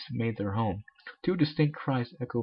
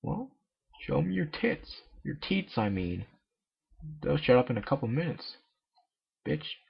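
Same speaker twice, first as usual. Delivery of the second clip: mock high retort; 4 semitones higher than usual. Comic voiced line.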